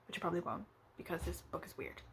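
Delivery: breathy whispered aside. Real, not acted. Vlogger confiding to viewers that the book is weird, whispered. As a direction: drop to a secret whisper.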